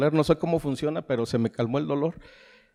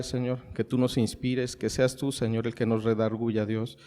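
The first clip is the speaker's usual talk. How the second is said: prayer; 3 semitones lower than usual. Acted. Pastor praying over his congregation before the sermon, humble and earnest.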